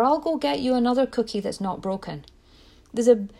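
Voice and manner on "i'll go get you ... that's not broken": high, anxious rush to soothe; mock-panicky parent hushing a sad child; fretful placating parent. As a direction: fix it fast, pitched well up. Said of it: "run scared and go into fear".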